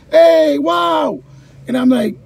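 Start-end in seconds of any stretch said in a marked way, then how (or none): 0.1-1.2 high, loud excited cheer; students cheering. Retold or imitated. Students jumping up from seats, loud excited cheer. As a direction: yell it like thrilled kids. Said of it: "the students started yelling".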